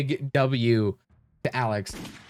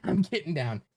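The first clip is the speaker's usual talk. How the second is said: laughing through the words; amused, half-laughing reply. Real, not acted. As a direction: giggle it out while ducking.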